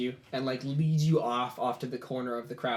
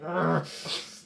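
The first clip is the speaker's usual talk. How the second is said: mock growl; 4 semitones higher than usual. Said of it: "growls a bit".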